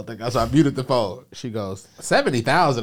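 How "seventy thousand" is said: high, loud mock disbelief; incredulous repeat. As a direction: imitate the bank clerk balking at the figure. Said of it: "I can tell her voice".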